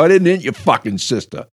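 retold yelling. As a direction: re-enact laying down the law. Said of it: "And I started yelling".

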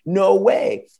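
high mock amazement; a light hammed-up whoa; amazed friends. Friends watch the car park itself, high mock amazement. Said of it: "They got that Boston accent".

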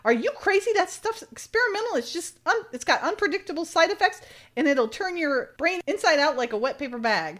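a touch of panicked scolding; alarmed scolding. Retold or imitated. Amanda scolds Lee for swiping the drug.

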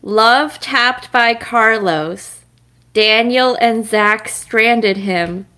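slow, measured haiku recital; unemotional haiku reading. Shown as a demonstration. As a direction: read a short poem slowly, without much emotion. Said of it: "should have read that with more emotion".

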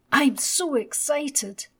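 put-on high, loud, slow excited boy; excited child. A narrator's reading. Little Ted at breakfast on his birthday, high excited child's voice. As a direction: squeeze out the excitement like a small boy. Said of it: "little Ted said".

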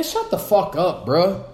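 annoyed. Real, not acted. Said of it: "I'm annoyed with Nicki".

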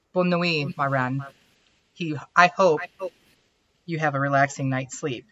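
put-on soft goodnight in French accent. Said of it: "the weird French accent".

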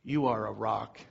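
Jesus quietly blessing Peter; voicing Jesus. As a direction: speak as Jesus would, low and gentle. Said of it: "And Jesus says".

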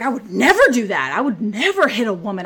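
mildly heated mock protest; retold mad denial. Woman imitating the guy who hit her, indignantly mad. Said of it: "So the guy gets mad".

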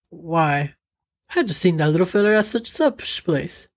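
a hint of a folksy old timer; folksy country voice. Folksy Bill explains plan.

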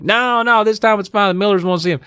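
high, strained put-on dad voice; mock insistent dad; imitated dad reassuring. Voicing dad's reassurance to girls.

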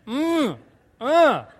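high mimicked toddler noises; toddler speaking tongues. Dad acts out daughter speaking in tongues, high imitated babble. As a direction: imitate a toddler's wordless fervour. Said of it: "speaking in tongues, literally".

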